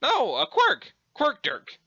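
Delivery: high-pitched British exclamation; insistent mock-British squeal; Urania Umbra. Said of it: "pretending to be British".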